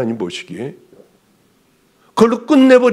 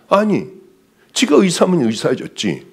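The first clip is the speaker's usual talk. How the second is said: normal talking voice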